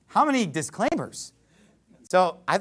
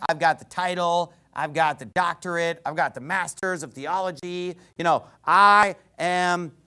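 bragging. Acted. Preacher mimicking Paul bragging of his pedigree, mock boastful. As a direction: imitate a self-important boaster. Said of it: "and he's bragging".

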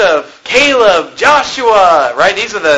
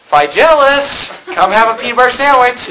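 put-on calling a child; 3 semitones higher than usual. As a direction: stretch the name like calling a kid to lunch. Mock parent calling child.

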